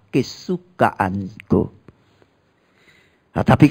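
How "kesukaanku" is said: soft, slow Kesukaanku; tender voice of God. Acted. God tenderly calls the faithful his delight. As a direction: say it gently, slowly. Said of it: "Kata Allah".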